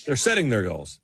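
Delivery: "setting" with the -ing fully sounded; careful G on the end of "setting"; television G's. Shown as a demonstration. Echoing the co-host's TV speech, "setting" with a full G. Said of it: "finish our sentences on television with G's".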